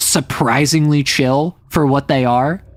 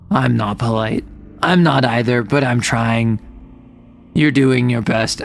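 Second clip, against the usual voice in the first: gloomy ogres; 3 semitones lower than usual. Acted. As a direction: drone it out like a glum ogre. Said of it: "that's how two ogres talk".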